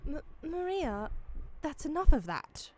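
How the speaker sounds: a hint of posh British reproof; British accent. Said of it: "I don't know why she's British".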